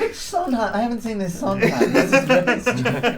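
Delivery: theatre nerd voice. Retold or imitated. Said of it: "He's like".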